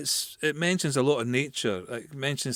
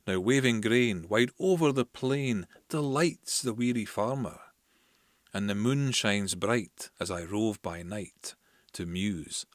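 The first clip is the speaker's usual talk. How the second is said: measured, lilting recital of Scots verse; unhurried reading of a Burns poem; slower than usual. Acted. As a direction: read it like a slow poetry recital. Reads Burns poem aloud.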